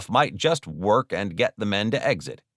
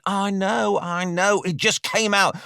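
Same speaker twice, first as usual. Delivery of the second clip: high-pitched, flustered excuse; sheepish high-voiced robber; defensive bickering; 11 semitones higher than usual. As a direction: protest back at the scolding, pitched up. Robber making excuses while being scolded.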